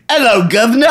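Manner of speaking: high mock Cockney greeting; Cockney accent. Performer repeats his bit on request, Cockney. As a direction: lift the pitch into silly Cockney. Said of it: "do the Cockney voice".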